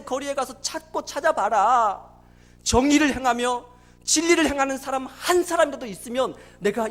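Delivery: forceful scripture declamation with stretched endings; God's proclamation. Acted. God commanding Jeremiah to search Jerusalem, forceful proclamation. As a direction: proclaim it like a decree, lightly voicing God. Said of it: "예레미야에게 하나님 하신 말씀이에요".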